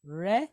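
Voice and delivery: Re said as rolled r plus short e; Hebrew syllable demo. Shown as a demonstration. Teacher sounds out Resh with Segol, careful Hebrew pronunciation. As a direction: model Re crisply for the class. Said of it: "quick E".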